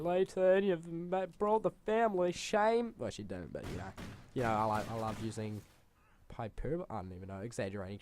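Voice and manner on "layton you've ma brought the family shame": high, loud, hammed-up scolding; outraged mum. Mum greeting her disgraced son, exaggerated high scolding. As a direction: imitate a mother wailing in mock outrage. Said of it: "and she's like".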